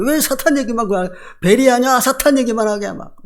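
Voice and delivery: mock nagging complaint, pitched a little up; nagging objection. Preacher mimics critics objecting to talk of Satan, nagging. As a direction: imitate someone picking at the preacher. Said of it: "막 그거 물고 늘어지잖아요".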